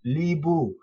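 Libu, clear "lee-boo"; teacher sounding out Libu; last syllables libu. Shown as a demonstration. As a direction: model Libu slowly for a learner. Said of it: "The last two syllables are".

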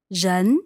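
人 with a rising second tone; 人 rising gently. Shown as a demonstration. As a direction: let 人 climb upward. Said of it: "second tone".

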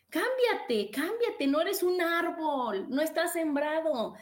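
high, emphatic push; cámbiate called out high and insistent, falling at the end; urgent exhortation. Real, not acted. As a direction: urge them to move, ringing high. Urging listeners to change.

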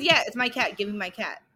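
flat, lifeless delivery; monotone voice. Retold or imitated. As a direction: say it with no feeling at all. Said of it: "he's also very monotone when he says it".

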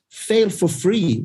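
"Fail for free" spoken slowly, each word weighted; slow punchy slogan. Real, not acted. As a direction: drop it word by word like a motto. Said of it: "slow emphatic slogan".

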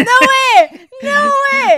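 shocked. Real, not acted. Shocked reaction to car.

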